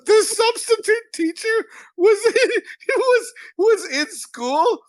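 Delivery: high, drawn-out words broken by laughing; helpless giggly storytelling; telling through laughter. Real, not acted. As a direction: struggle to get the story out while laughing. Cracking up while telling the story.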